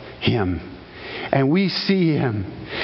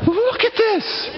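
high, voiced cry of amazement; voiced awe; slower than usual. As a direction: call it out, thrilled. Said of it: "And I just went".

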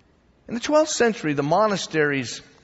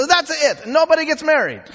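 higher, louder fed-up proclamation; mock pope decree; 9 semitones higher, 5 dB louder than usual. Teacher acting out the pope banning marriage, mock exasperated. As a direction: bang down the rule like an exasperated pope. I don't know if he said it in an Italian accent.

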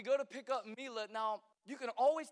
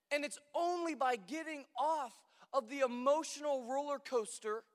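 preaching. Real, not acted. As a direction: drive the point home to the congregation. Preaching at full force.

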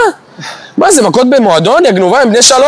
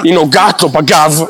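lower, slow, soothing report voice; calm TV narrator; 5 semitones lower, slower than usual. Retold or imitated. Mocking the calm reporter over a shocking clip, slow and soothing. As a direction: narrate it serenely like a documentary. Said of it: "מדברת בקול כזה רגוע".

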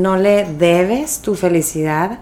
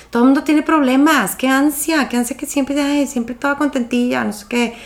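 a pitched-up, whiny imitation of a resentful friend; mock her griping, higher; higher whiny friend complaining; annoyed friend; 6 semitones higher than usual. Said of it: "esta amiga como que se enojaba y me decía".

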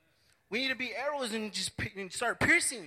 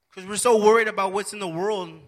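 preaching loud; 10 dB louder than usual. Real, not acted. Preaching climax.

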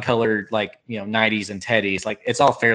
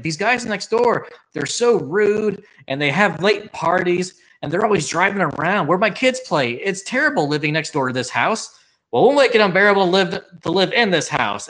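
mildly whiny mock complaint, higher; sad sack dad; 5 semitones higher than usual. Suburban dad complaining about gangsters next door, mock aggrieved. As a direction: pitch it up, lightly acted grievance.

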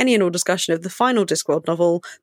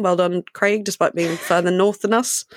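put-on bright praise like a kids show host. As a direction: congratulate him like a children's presenter. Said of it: "That was very kids' T V voice".

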